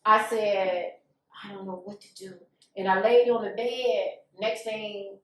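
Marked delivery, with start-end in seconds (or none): 1.4-2.3 much softer, almost to herself; retold helplessness. Woman alone with no idea what to do, quietly helpless. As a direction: drop the voice right down, at a loss. Retelling her helpless moment.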